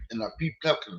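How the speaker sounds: talking while crunching ice; words round a mouthful of ice; mouth full of ice. Real, not acted. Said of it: "sorry, y'all, I'm eating ice".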